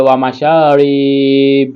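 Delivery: slow "ওয়া মা শা রিব" closed on b; sakin stop. Shown as a demonstration. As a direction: hold "শা" and "রি", then stop on b in "রিব". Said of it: "এইভাবে পড়তে হবে". ("রিব" টেনে শেষে সাকিন)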